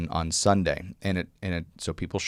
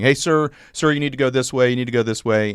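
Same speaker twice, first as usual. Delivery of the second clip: raised retold call, getting a man's attention; calling after him; 4 semitones higher, faster than usual. Election clerks calling a voter back, raised retold call. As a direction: call out to stop a man going the wrong way.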